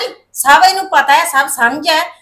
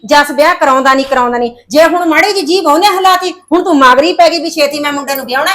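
exasperated scolding; 2 semitones higher, 5 dB louder than usual. Acted. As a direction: scold her for rushing the wedding. Sister scolding her impatience. (ਖਿਝ ਕੇ ਉੱਚੀ ਝਿੜਕ)

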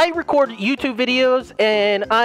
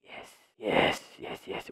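whispered yes; 13 dB quieter than usual. Real, not acted. Sneaking past, hushed agreement.

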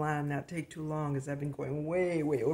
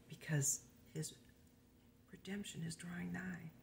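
whispered preaching. Acted.

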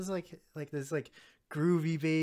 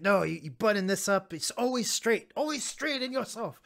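mock stern Nazi; 5 semitones higher than usual. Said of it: "He's like".

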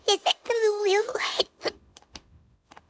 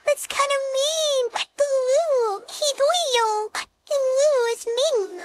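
whiny; 5 semitones higher, much slower than usual. Real, not acted. Complaining that Will is mean.

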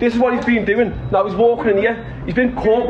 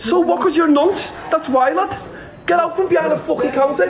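jeering taunt; 6 semitones higher than usual. Real, not acted. Confronting man, jeering with laughs.

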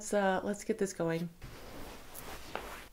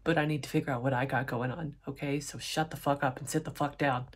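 mock dismissive rant; 4 semitones lower, 4 dB quieter, faster than usual. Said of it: "he's like".

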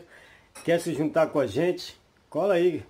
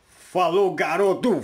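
cheerful loud send-off; loud goodbye; 4 semitones higher, 7 dB louder, slower than usual. Real, not acted. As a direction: call out the goodbye warmly. Loud farewell to a friend on camera.

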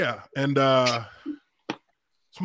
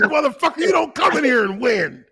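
mock shouted taunt; 8 semitones higher than usual.

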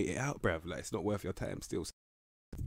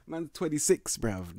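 disbelief; 9 semitones higher, slower than usual. Real, not acted. Disbelief at player's age.

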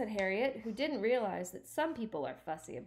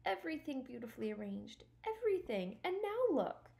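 trembling voice; 8 semitones higher than usual. Acted. Stuart to Harriet over his ruined canoe, trembling voice. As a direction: say it small and trembling. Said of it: "said Stuart in a trembling voice".

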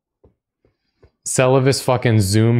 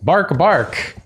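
dog barking; 8 semitones higher than usual. Pretend. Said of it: "Blade the dog man".

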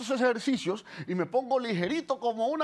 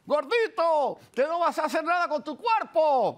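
mildly raised mock taunt; imitated heckling; 3 dB louder, slower than usual. Men passing the yard jeer at him, mock heckling. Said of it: "la gente empieza a gritarme cosas".

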